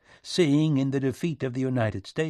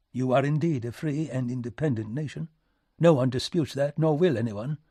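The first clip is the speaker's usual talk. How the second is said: higher, formal diplomat's voice; polite British envoy; British minister, agreeing; 4 semitones higher than usual. Acted. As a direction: concede it with smooth courtesy.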